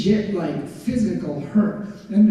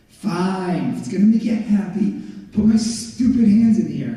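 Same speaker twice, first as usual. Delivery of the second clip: grudging, exasperated giving-in; fine-have-it-your-way grumble; bad attitude; 3 dB louder than usual. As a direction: give in with sulky reluctance, building louder. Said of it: "give him a bad attitude".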